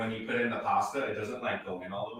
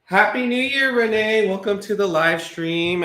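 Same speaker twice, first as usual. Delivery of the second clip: excited; 9 semitones higher, 9 dB louder than usual. Real, not acted. Greeting a viewer on live stream.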